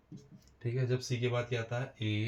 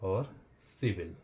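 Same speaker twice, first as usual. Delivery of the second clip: slow demo; 3 semitones lower, 7 dB quieter, much slower than usual. Shown as a demonstration. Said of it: "मतलब पढ़ेंगे भी".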